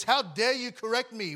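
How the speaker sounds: indignant dishonor. Acted. Preacher voicing dishonor's reply to correction, mildly indignant. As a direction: push it out as an offended retort. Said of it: "It looks at correction and says".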